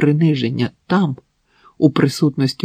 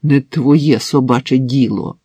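grumbled; 4 dB louder than usual. Acted. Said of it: "буркнув у відповідь Максим".

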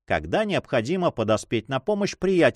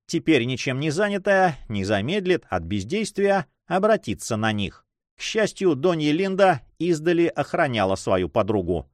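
plain reading voice

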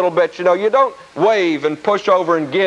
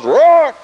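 loud, high roar; hammed-up lion roar; mock lion roar; 6 semitones higher, 5 dB louder than usual. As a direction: roar like a lion about to pounce. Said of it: "He goes".

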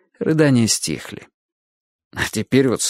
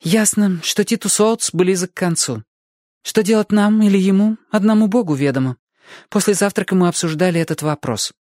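matter-of-fact recital from a book; dry reading aloud; 9 semitones higher than usual. A narrator's reading. Girl reading Scott's diary aloud, dry. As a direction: read the diary drily. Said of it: "в свойственной ей суховатой манере стала зачитывать".

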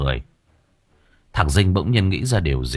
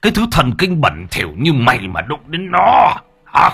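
cursing; 3 dB louder than usual. Acted. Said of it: "tay đánh, miệng chửi".

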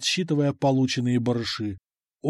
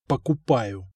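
lower, tight forced word; through gritted teeth; 3 semitones lower, slower than usual. Acted. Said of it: "сжав зубы".

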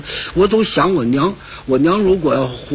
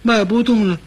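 legs frozen stiff; 4 semitones higher than usual. Acted. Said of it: "这站着愣着半天哆嗦".

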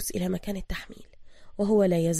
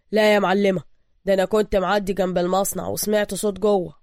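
mild defiant anger, louder; angry defiance; 6 dB louder than usual. Acted. Thug claiming the shop, angry and defiant. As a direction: challenge her. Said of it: "يقول بغضب وتحد".

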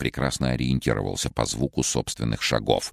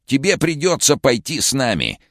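high, eerie flat statement; sinister villain voice; 12 semitones higher, 5 dB louder than usual. Acted. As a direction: state it in an uncanny voice. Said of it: "констатировал странный учёный".

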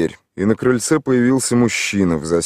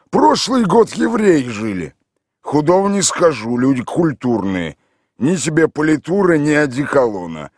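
higher, louder rambling peasant voice; village drunk; 5 semitones higher, 4 dB louder than usual. A narrator's reading. Mikhail Ivanovich rambles to the stranger in a loud village voice.

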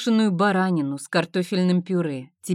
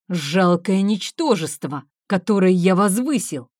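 contemptuous rage; 4 dB louder than usual. Acted. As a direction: sneer down at her in fury. Husband berates and beats wife.

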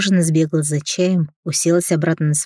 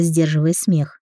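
plain reading voice

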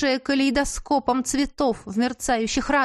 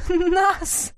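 mocking duchess; 8 semitones higher, 4 dB louder than usual. A narrator's reading.

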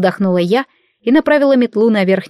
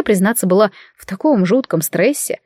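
ordinary delivery

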